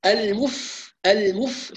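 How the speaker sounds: المف with a light, voiceless ف; fa demo. Shown as a demonstration. Teacher showing students how to stop on the fa. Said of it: "شوفوا المف".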